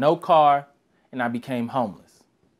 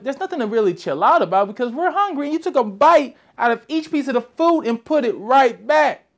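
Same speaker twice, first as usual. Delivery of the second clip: pitched-up, exasperated complaint; upset high complaint; 6 semitones higher than usual. Retold or imitated. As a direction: protest it, voice climbing high. Confronting cousin over food.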